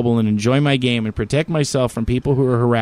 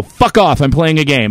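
mock snap; 4 dB louder than usual. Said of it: "then I go".

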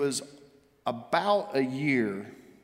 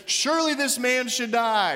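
indignant king; 8 semitones higher, 4 dB louder than usual. Retold or imitated. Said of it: "where he says".

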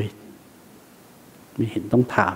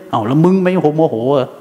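sarcastic retort; 3 semitones higher than usual. Retold or imitated. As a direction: talk back lazily, mocking the question. Mind retorts back.

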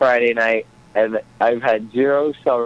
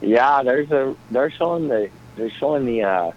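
a light put-on Minnesota accent; easygoing Minnesota accent. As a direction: chat like a folksy Minnesotan. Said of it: "I love that accent".

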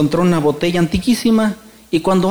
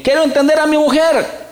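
pleading wish; 9 semitones higher than usual. Acted. Man begs the genie, high pleading cry. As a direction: beg for it, voice jumping up high.

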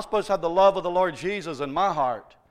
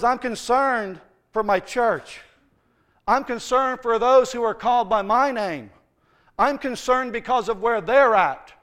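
God speaking; 5 semitones higher, 5 dB louder than usual. Acted. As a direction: lay out God's concern word by word. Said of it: "God says".

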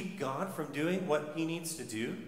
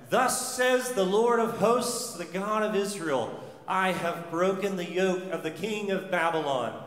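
prophetic proclamation; 4 dB louder than usual. Acted. Reading prophet's words.

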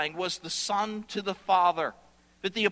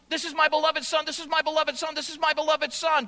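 delighted Father; 7 semitones higher, faster than usual. Acted. Preacher voices the Father's delight.

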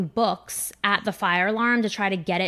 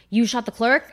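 mock disbelief; 3 semitones higher than usual. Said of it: "that scene in My Cousin Vinny".

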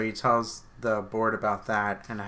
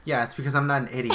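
laughing; 3 semitones higher, 4 dB louder, faster than usual. Real, not acted. Joking brag, laughing.

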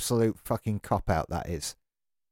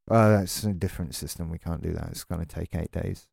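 a lightly voiced bored agent, quieter and lower; mocking support agent; 6 semitones lower, 3 dB quieter than usual. The ranter mimics support staff brushing him off, lightly mocking and softer. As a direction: parrot the company line, softer and lower, with mild mockery. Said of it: "we just repeat the same thing over and over again".

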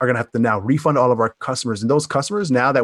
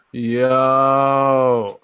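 shouted yo. Retold or imitated. Exec greeting a hundred people on a call, shouted yo. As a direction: yell it to the whole call. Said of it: "hundred people on a conference call".

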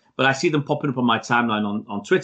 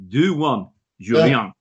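mock French accent, Julian said as Zhoo-lee-ahn; slower than usual. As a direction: tease him in a jokey French accent. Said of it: "As we say in French".

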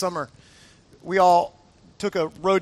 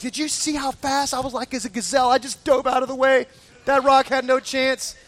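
raised pitch, playful bragging; excited boasting; 4 semitones higher than usual. Retold or imitated. Hiker boasting of his dodge to friends, excited. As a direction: brag like a thrilled daredevil.

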